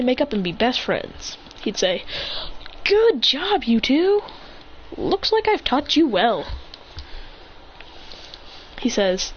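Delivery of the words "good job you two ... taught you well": raised, lilting congratulation; proud praise. Acted. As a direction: praise them like a pleased teacher. Teacher praises the two kids.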